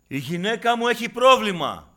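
high, loud plea for help; desperate cry. Acted. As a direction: cry out for your wife. Voicing a desperate husband. (απελπισμένη κραυγή)

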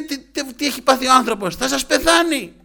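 high, very loud re-enacted berating; shouting second doctor. Doctor showing colleagues how badly hurt he is, furious shouting. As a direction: yell the warning at careless colleagues. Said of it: "Τους έβριζε αυτός μετά".

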